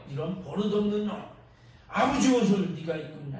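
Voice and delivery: mild mock scolding of a son; retelling an angry father, lightly voiced; a hint of a father flaring up at his son. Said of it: "아버지가 벌컥 화를 내요".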